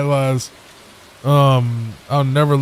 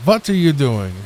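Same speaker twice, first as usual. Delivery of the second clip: put-on German accent. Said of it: "It's W A S if it's German".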